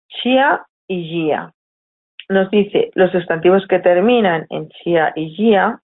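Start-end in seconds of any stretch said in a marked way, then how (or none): 0.1-1.5 slow spelled-out endings. Shown as a demonstration. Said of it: "nombres que terminan en".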